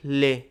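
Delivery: "ले" said alone after a pause; isolated syllable. Shown as a demonstration. Teacher counting out syllables, "ले" said separately. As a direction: set "ले" apart as its own sound. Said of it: "इसमें तीन हमारे".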